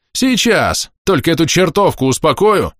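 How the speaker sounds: high, loud furious retort; woman shouting back as she lunges; enraged woman. A narrator's reading. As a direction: snap back ready to fight.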